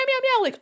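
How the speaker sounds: high squeaky meow imitation; kitten meows. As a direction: mew like a tiny kitten.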